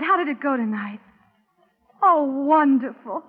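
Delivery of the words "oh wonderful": slow, tearful and happy; words through happy tears; crying with joy. Acted. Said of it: "no, I'm not crying".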